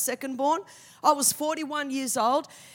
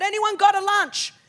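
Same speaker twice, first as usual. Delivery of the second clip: disciples calling out; 3 semitones higher, 4 dB louder than usual. Retold or imitated. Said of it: "they said".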